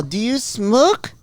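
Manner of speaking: high, slow mock Korean accent; Korean lady doctor. Korean doctor questioning her patient, high mock Korean accent. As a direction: stretch it out as an imitated Korean lady. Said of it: "she talks like that".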